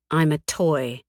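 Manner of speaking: "toy" given pointed emphasis; stress on toy. A narrator's reading. She throws the word back at him, pointed stress on "toy". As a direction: lean on "toy" so it stings. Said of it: "The way I emphasize the word".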